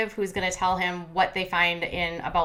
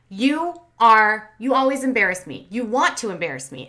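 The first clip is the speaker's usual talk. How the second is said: angry outburst; 2 semitones higher, 6 dB louder than usual. Retold or imitated. Retelling Rose's angry outburst.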